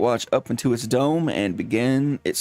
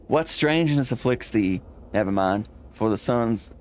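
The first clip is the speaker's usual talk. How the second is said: lightly voiced olde-English landlord; a hint of a formal old lodger; archaic speech. Old lodger speaks to the dinosaur, mild archaic formality. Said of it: "When you start talking like this".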